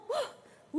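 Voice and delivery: short high "uh!" cheer; imitated goal cry. Preacher shows how fans react to a goal, imitated cheer. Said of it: "Uno grita".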